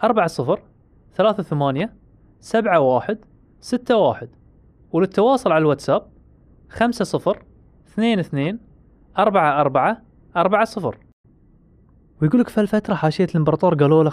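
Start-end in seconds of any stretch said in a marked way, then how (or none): 0.0-11.0 reading digits one by one. Shown as a demonstration. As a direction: spell out each digit with a pause. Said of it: "سجل عندك".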